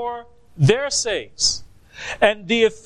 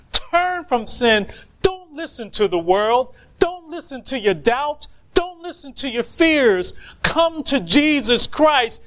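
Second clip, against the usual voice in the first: urgent evangelistic appeal, driven phrase after phrase; pleading preacher; 2 semitones higher than usual. Acted. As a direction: plead with sinners to turn. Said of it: "we are pleading and we persuade men".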